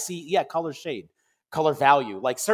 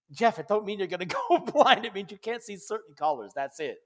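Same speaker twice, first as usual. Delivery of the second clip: laughing through the words, fading softer; imitating laughing mom; 2 semitones higher, 4 dB quieter than usual. Mother reassuring her upset son, imitated with laughter. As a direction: retell mom's amused reassurance with chuckles. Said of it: "And she's laughing".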